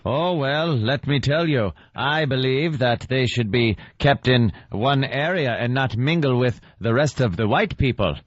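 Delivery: lightly voiced prim racist film lady; a hint of clipped vintage film speech; clipped old-film tones. Host mocking the racist white lady from the old film, mock clipped tones. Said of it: "people just talk in very clipped tones".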